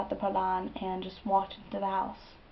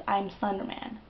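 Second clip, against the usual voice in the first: raspy voice; 5 dB quieter than usual. Retold or imitated. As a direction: rasp it out like a possessed creature. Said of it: "a raspy voice comes out of me".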